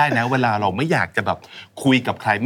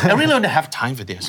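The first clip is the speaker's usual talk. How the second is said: a touch of irritated attitude; slightly snappy attitude; much slower than usual. Shown as a demonstration. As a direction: say it a little testily, brushing someone off. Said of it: "อาจจะพูดด้วย attitude ที่มันแบบเหวี่ยงๆนิดนึง".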